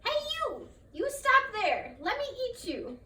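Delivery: high, loud shout to stop him; shouting neighbor. Acted. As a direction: call out to grab him. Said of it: "She shouted to him".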